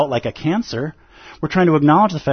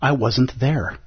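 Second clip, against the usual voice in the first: slow, softer, bewildered; dazed bewilderment; 6 dB quieter, much slower than usual. Retold or imitated. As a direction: ask it like you just came to after a fight. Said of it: "with our partner and gone".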